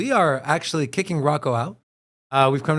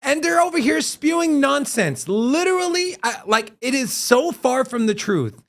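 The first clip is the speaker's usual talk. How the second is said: infuriated rant; 5 semitones higher than usual. Real, not acted. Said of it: "it's so infuriating".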